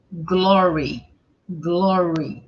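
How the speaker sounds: "Glory" ending in a clear "ee"; careful teacher's "Glory", ee at the end; final I sound. Shown as a demonstration. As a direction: finish "Glory" on a long I sound. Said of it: "sempre tem um som de I".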